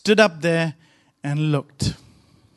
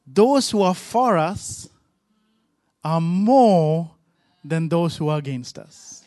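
calm; 3 semitones lower than usual. Retold or imitated. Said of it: "he was calm".

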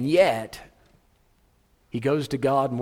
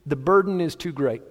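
high, pleading, worn-out plea to God; a hammed-up fed-up Moses; exasperated Moses; 6 semitones higher, 3 dB louder than usual. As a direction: beg God to end it, fed up. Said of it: "Moses is frustrated".

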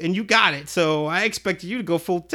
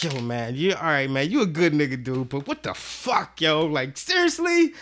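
mock scolding inner voice; 3 semitones lower than usual. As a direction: play his own body part scolding him, half-joking. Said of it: "like my dick is yelling at me".

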